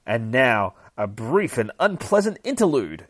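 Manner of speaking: loud, grand announcer delivery; announcer caption. Acted. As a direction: present it like a show host. Reads comic caption as announcer.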